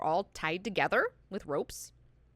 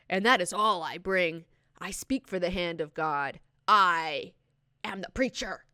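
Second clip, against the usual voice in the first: proclaiming preacher; 4 dB louder than usual. Retold or imitated. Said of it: "he's like".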